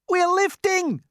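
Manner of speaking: high, loud excited cry; shouted. Acted. Crew feeling the lift, excited high shout. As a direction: cry out as it lifts. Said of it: "somebody shouted".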